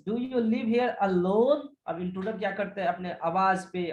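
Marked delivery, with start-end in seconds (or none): 0.1-1.7 slow, emphatic "Do you live here alone?"; emphatic question. Acted. Intruder questioning Gerard about living alone, slow and emphatic. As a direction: press each word of "Do you live here alone?", rising on "alone". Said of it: "Intruder with emphasizes".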